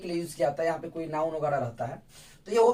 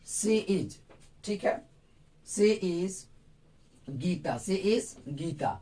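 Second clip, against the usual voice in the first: slow dictation; much slower than usual. Shown as a demonstration. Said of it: "ये sentence बिल्कुल गलत है".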